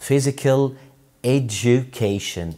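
"education" slowly as e-ju-KAY-shun. Shown as a demonstration. Teacher modelling the full term, "education" slow with j. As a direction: stretch "education", j sound for du. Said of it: "ال دي مع يو بتدي صوت ج".

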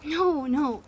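ordinary delivery

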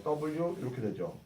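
normal talking voice

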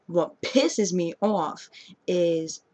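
slow, drawn-out New York accent. Shown as a demonstration. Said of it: "hello, New York accent".

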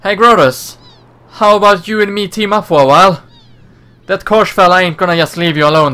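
put-on a slipping Australian accent. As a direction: play the brash Aussie rescuer. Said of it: "I can't really hold a accent".

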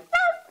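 high squeaky mock pet yelp; a short high animal squeal; startled dog yelp. Dog hurt in crash.

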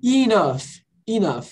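"Enough" as "i-NUF", GH said like F; final F sound. Shown as a demonstration. Teacher drilling the word with a student, "Enough" ending in F. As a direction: repeat "Enough" for the learner, ending on F. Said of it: "como se fosse um F no final".

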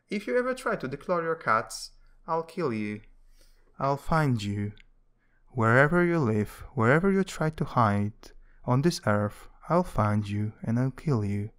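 loud, menacing mock threat; hammed-up menacing warning. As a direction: threaten them like a mob boss, half joking. Mock threat to cat declawers.

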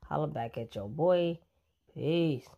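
ordinary delivery

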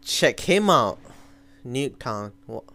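ordinary talk

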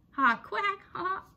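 high quacking laughter; mocking duck laugh.

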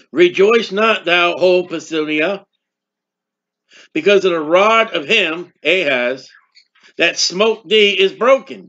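measured pulpit reading of scripture. Acted. Reads scripture aloud.

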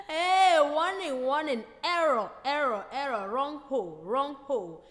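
loud robot alarm voice; robot warning, loud and chopped. Acted. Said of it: "He dey speak like the robot itself".

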